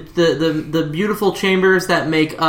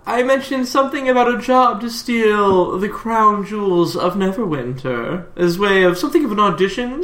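smooth crime boss. Acted. GM voicing Hugo making offer.

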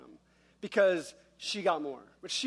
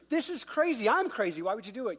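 higher pitch, urgent disbelief; overwhelmed amazement; 5 semitones higher than usual. Acted. Preacher to God about being used in brokenness, overwhelmed amazement.

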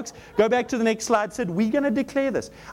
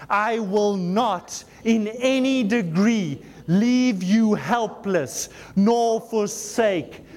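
slow, deliberate declaration; slow group declaration; much slower than usual. Real, not acted. Preacher leading the church in declaring scripture, slow and deliberate. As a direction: proclaim each phrase slowly with the congregation.

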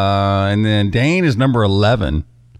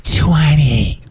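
shouted announcer; 3 semitones higher than usual. Pretend. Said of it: "It's talking your normal voice".

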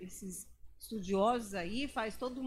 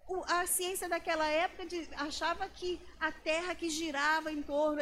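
much higher, scoffing mock professor voice with a laugh; 8 semitones higher, 4 dB louder than usual. Preacher mocking a professor's claim to the congregation, high scoffing voice. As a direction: ham it up like a know-it-all lecturer. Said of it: "Aí ele falou assim".

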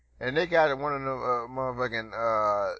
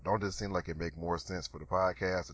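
low, soft put-on deep voice, speeding up at the end; deeper voice; 7 semitones lower, 9 dB quieter than usual. Host showing off new podcast voice, low and deep. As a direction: sink the voice down to show it off. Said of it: "talk like this".

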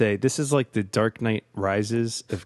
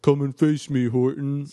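overdubbed villain shout; 5 semitones higher, 4 dB louder than usual. Retold or imitated. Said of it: "the overdubbed".

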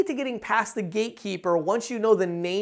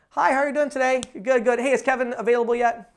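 familiar caller; 4 semitones higher than usual. Shown as a demonstration. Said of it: "I wanna sound like I just called".

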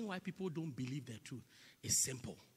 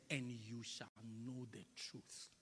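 slow, soft and low, into a whisper; whispered scripture; 5 semitones lower, 10 dB quieter than usual. Acted. Preacher whispering Jesus' promise to the church. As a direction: breathe the verse out softly.

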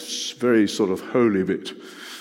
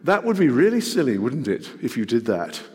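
loving, tender chiding. Acted. Parent to children, tender chiding. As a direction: tease out the mistake tenderly. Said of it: "you say it very lovingly and very tenderly".

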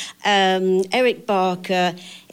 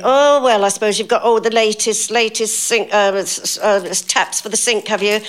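a light Northern busybody, higher on the first oh; mock Thora Hird; 4 semitones higher, 3 dB louder than usual. The speaker imitates Thora Hird quizzing her about her flat, lightly voiced. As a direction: gently send up a nosy older actress.

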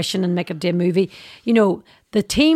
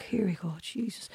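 exasperated mum; 15 dB quieter than usual. Retold or imitated. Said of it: "My mum was like".

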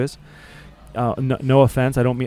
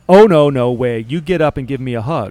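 excited protest; 6 dB louder than usual. Retold or imitated. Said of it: "she does the".

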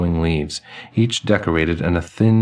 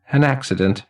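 put-on sighing old man; 7 semitones higher than usual. Elderly man sighing about the accident, high voice. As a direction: let the old man sigh it out. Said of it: "he sighs".

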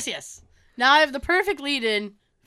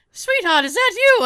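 put-on high, loud, incredulous old man; Tony; 13 semitones higher, 7 dB louder than usual. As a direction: imitate a shocked grandfather asking. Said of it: "And he's like".

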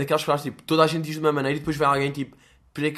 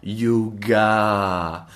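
mock Korean yoga; 4 semitones lower than usual.

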